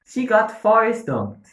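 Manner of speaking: incredulous. Real, not acted. Incredulous repeat of a meme.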